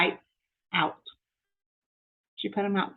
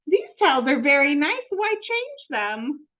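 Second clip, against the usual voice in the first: higher, bemused maid voice; puzzled Amelia Bedelia; 5 semitones higher, 3 dB louder than usual. Acted. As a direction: wonder aloud why change them. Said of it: "she said".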